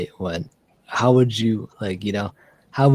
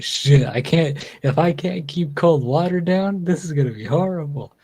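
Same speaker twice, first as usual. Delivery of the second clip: panicked; 6 semitones higher than usual. Retold or imitated. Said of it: "I was like".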